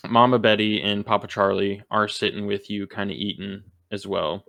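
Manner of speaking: slight country accent slipping out. Real, not acted. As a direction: let a little country twang creep in. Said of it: "That country accent is coming out again".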